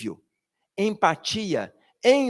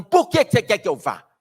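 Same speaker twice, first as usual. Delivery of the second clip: irritated question; 6 dB louder than usual. Retold or imitated. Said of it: "na irritação essa pergunta vai vir".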